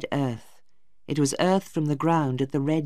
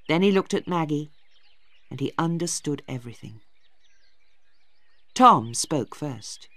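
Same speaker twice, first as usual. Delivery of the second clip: usual speaking voice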